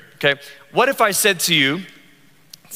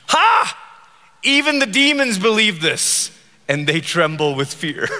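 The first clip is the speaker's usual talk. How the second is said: tongue in cheek. Retold or imitated. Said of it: "tongue in cheek".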